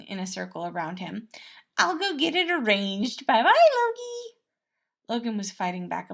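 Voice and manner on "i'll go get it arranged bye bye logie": high, loud sing-song goodbye; Remus, flirty. Acted. Prince teasingly saying bye to Logan, high and loud. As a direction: drag out the farewell playfully.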